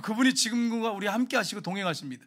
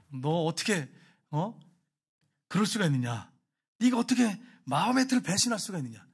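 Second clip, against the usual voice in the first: half-acted interrogation of the student; retold angry teacher. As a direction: play the angry teacher lightly. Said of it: "하면서 막 화를 내는 거예요".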